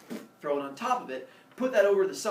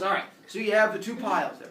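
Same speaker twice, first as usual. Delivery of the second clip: Zeus; 4 semitones higher, 4 dB louder than usual. Acted. Zeus addresses the humans.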